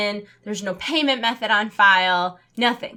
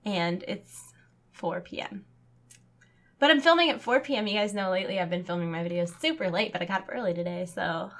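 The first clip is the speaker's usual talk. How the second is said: quiet, deflated and weary; tired; 5 semitones lower, 7 dB quieter than usual. Real, not acted. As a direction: sigh it out, worn down. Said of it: "it's been a rough day".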